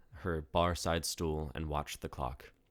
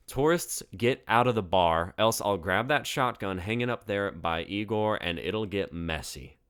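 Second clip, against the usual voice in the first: louder warning, rising sharply on Tourists; daring threat; 3 semitones higher, 5 dB louder than usual. Acted. April threatening the tourists with the shotgun, louder dare. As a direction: threaten them out the door. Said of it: "April dared".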